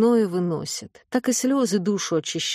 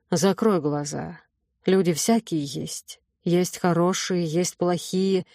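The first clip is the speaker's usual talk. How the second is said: put-on wise old witch; 3 semitones lower than usual. Witch instructs Astra.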